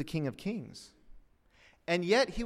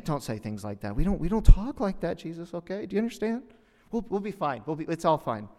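lightly acted flustered reproach; public relations handler; 2 semitones higher, 6 dB louder than usual. PR handler warning Jesus not to talk like that, mildly flustered. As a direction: stammer a warning, then smooth it over. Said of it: "The public relations".

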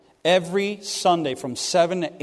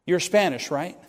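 hushed confiding; 5 dB quieter than usual. Retold or imitated. Pastor leans across the table.

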